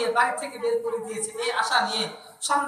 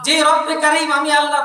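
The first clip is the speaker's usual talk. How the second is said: fervent cry; 6 dB louder than usual. Real, not acted. Exclamation in sermon.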